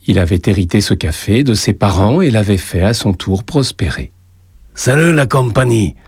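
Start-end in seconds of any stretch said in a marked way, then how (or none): 4.7-6.0 a hint of a Spanish accent, slightly higher; light Spanish accent. Joseph greeting the bar regulars on entering, light Spanish accent. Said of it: "avec un accent qui dissimulait mal ses origines espagnoles".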